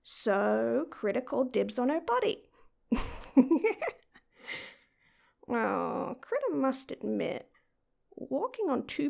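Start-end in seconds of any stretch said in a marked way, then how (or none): 2.9-3.9 giggle. Acted. Cat girl giggles at her idea.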